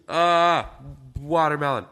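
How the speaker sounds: stifling a sneeze mid-word; fighting off a sneeze; holding back a sneeze. Real, not acted. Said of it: "I'm trying not to sneeze".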